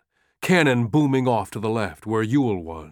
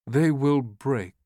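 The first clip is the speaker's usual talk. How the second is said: slow repeat; 4 semitones higher, slower than usual. Acted. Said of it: "Lee repeated".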